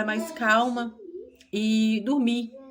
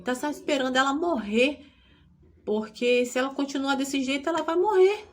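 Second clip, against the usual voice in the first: indignant doctor; 6 semitones higher than usual. Retold or imitated. Doctor insisting the girl will die, rising to an outraged peak. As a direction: let the doctor's outrage climb to the end. Doctor's words repeated, climbing.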